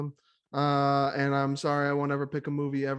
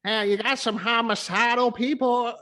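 mock creepy voice; 5 semitones higher than usual. Jokey creepy voice.

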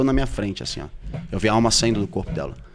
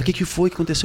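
higher-pitched worried question, retold; voiced mother-in-law; 6 semitones higher, much faster than usual. Mother-in-law asking the man she found collapsed, imitated higher voice.

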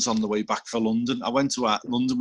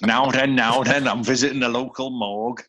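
Jimmy Savile impression. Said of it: "he's gone full Savile".

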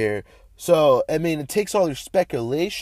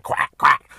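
two short imitated duck quacks; 7 dB louder than usual. Host joking about live duck, mock quacking.

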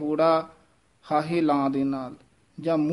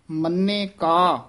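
ਮੰਨੇ ਕਾ said slowly, then a clear pause; ਮੰਨੇ ਕਾ ਤੋਂ ਬਾਅਦ ਵਿਸਰਾਮ; pause after phrase; much slower than usual. Shown as a demonstration. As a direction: stop briefly after ਮੰਨੇ ਕਾ. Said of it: "ਇੱਥੇ ਵਿਸਰਾਮ ਲਾਉਣਾ ਹੈ".

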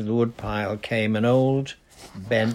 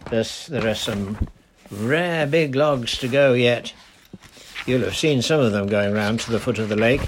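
put-on easy, friendly old dialect voice; lightly voiced old charcoal burner greeting a girl; 3 semitones higher, 3 dB louder than usual. Old man explains timber.

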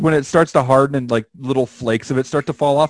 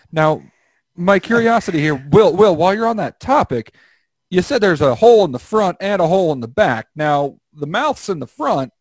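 higher twangy yokel voice; hick voice; 4 semitones higher than usual. Acted. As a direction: play a folksy country guy. Hick character voice, raised pitch.

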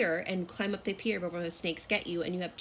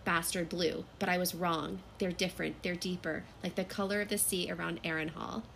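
book narration, slightly hushed; novel read aloud. Acted. Reads a passage from the novel.

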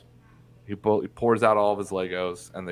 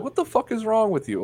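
higher, indignant blast; imagined outburst; 13 semitones higher than usual. Pretend. Angry at the addicted dad, imagined high outburst. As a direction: shake some sense into them. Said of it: "punch 'em in the face and be like".

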